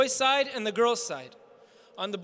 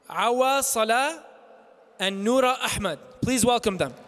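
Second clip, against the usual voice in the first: announcer call; 3 dB louder than usual. Real, not acted. Host introducing guests to audience.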